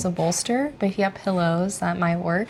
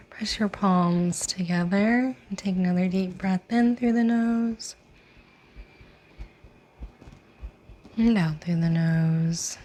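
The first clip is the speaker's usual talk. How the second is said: guided meditation. Real, not acted. Yoga teacher inviting class to set an intention, guided meditation. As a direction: lead them gently inward, lingering on the phrase endings.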